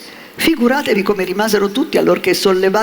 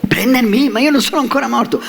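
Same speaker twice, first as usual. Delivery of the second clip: frightened puppet; 7 semitones higher than usual. A narrator's reading. Puppet terrified by coffin rabbits.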